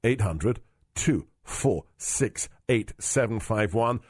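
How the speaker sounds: slowly spelling out the number; slow and clear. Shown as a demonstration. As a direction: say it slow so they can write it. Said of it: "but write it down".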